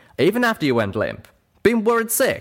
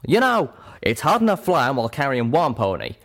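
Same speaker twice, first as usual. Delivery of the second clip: raised-pitch indignant rant; Calamity lashing out; 7 semitones higher, 4 dB louder than usual. A narrator's reading. Flier berating the pony he carried, lashing out. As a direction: scold in an agitated, higher character voice. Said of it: "Calamity lashed out".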